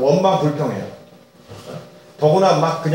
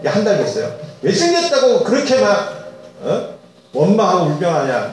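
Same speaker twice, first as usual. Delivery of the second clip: imagined scolding God; 3 semitones higher than usual. Retold or imitated. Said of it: "이렇게 막 꾸짖고 할 것 같잖아요".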